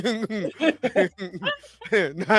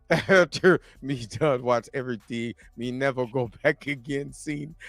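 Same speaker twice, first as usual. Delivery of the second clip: a hint of a joking Jamaican accent, lightly done; mock Jamaican patois read, laughing into it; fake Jamaican accent; 8 semitones lower, 6 dB quieter than usual. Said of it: "your fake Jamaican accent".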